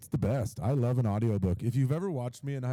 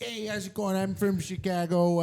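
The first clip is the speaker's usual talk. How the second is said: put-on Chicago accent; 8 semitones higher than usual. Podcaster as saint from Chicago, high Chicago accent. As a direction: introduce yourself in broad Chicago, pitched up. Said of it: "just a guy from Chicago".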